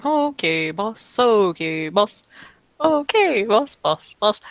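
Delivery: slow, repetitive dim henchman mumble; muttering henchman. Acted. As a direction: mumble it over and over like a simple henchman. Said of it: "he's just muttering".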